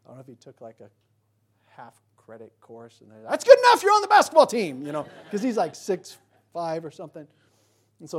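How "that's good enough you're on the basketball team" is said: high, loud mock eager coach; eager recruiter. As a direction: gush like a coach spotting a tall player. Coach eager to recruit tall player.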